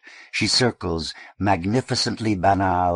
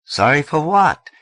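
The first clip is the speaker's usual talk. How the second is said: angry retort; 10 semitones higher, 9 dB louder than usual. Acted. Eddie angry.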